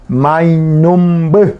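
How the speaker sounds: "mainumbu" said slowly and clearly; Guarani word. Shown as a demonstration. Teacher modelling "mainumbu" for the class, slowly. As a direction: draw out "mainumbu" for learners. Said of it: "Colibrí se dice".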